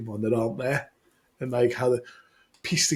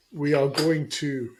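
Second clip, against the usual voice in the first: put-on Australian accent; slower than usual. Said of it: "Good, good, good accent".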